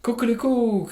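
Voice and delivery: high, loud crowing call; cock-a-doodle crow; rooster crow. Acted. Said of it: "crowed the rooster".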